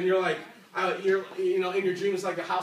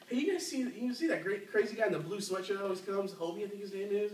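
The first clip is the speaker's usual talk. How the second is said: softer, lightly imitated gossiping aside; mock confidential gossip; 6 dB quieter than usual. Staff member pointing out an odd churchgoer to colleagues, in a mock confidential aside.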